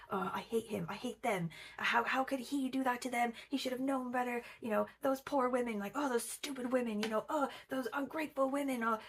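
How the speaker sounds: spiraling inner rant. Retold or imitated. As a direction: play her circling thoughts half-mocking.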